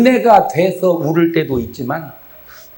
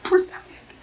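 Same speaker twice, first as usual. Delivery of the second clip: shouting exhortation; 10 semitones higher than usual. Real, not acted. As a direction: cry it out to the crowd.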